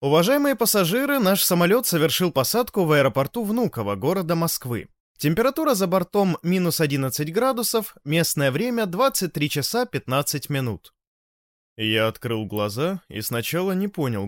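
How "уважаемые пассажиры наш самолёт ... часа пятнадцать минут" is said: airport announcement. Acted. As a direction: read like an airline PA. Pilot announcement after landing.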